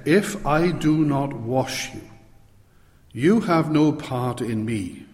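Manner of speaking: slow and deliberate; measured, very clear pronouncement; direct, clear answer. Retold or imitated. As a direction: state it plainly, phrase by phrase. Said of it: "Jesus' direct and very clear answer".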